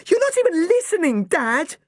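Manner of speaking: put-on furious girl yelling at Dad; angry daughter. A narrator's reading. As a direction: hurl it at her father.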